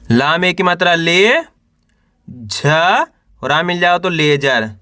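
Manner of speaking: teacher's spelling drill, held rising syllables; syllable-by-syllable sounding out. Shown as a demonstration. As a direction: sound out each letter for beginners to repeat. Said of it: "एक अक्षर का उच्चारण करके इनको पढ़ रहा हूँ".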